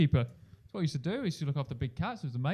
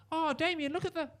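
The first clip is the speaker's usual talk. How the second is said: high, thrilled voice; excited mum; 13 semitones higher, 4 dB quieter than usual. Retold or imitated. Excited mother showing her son the lemur, high. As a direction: point it out to the child with glee. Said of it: "and she went".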